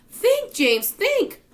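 high, loud frantic plea; urgent urging. A narrator's reading. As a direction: beg loudly for an idea. Ladybug urges James in panic.

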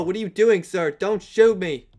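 panicked pleading. Pretend. Begging another player not to shoot.

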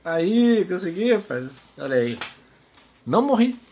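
high loud victory shout; triumphant cheer. Real, not acted. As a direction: cheer out the win. Finally succeeds.

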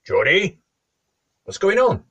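loud, high call to someone out of view; shout. A narrator's reading. Wife calls out to her husband, shouting. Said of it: "Mary shouted".

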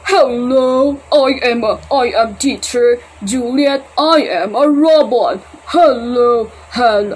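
slow and stiff like a toy robot, lightly done. Shown as a demonstration. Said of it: "Ah, hindi, hindi. Mali".

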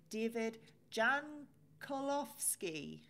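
ordinary talk

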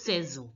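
saison as "say-zon"; s becomes z. Shown as a demonstration. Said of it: "S becomes Z".

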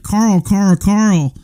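mock calling someone's name across a crowd; calling out loudly. The crowd trying to get Sargon's attention, mock calling. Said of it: "speaking loudly towards Sargon".

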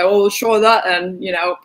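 mock English rocker accent; mock rock-band English accent. Host imitating a sixties rock star's offhand reply, mock English accent. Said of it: "brilliant Spinal Tap-esque, uh, English accent".

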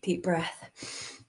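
a soft breathy whisper; a whispered breathing cue. Real, not acted.

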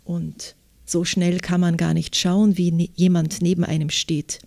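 measured literary reading with clear articulation; story narration. A narrator's reading. Author reads her novel excerpt to interviewer, literary narration. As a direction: read the novel excerpt aloud, phrase by phrase.

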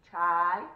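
TRI, AN, GLE with long gaps, loud; very slow, emphatic Triangle in three parts; syllable by syllable. Shown as a demonstration. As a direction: stretch each syllable of Triangle and pause between. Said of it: "Let's do it with our chin".

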